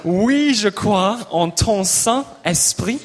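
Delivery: French, Oui, je crois en ton Saint-Esprit, slow; French lyric demo. Shown as a demonstration. Leader models the French song for the congregation, slow. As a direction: model it slowly for the class. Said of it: "I'm gonna say the words in French".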